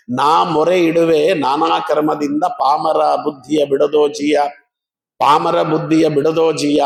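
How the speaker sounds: slow, measured chanting of a hymn; devotional verse recitation. Acted. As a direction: intone the verse like a prayer. Recites Gopaladasa verse slowly.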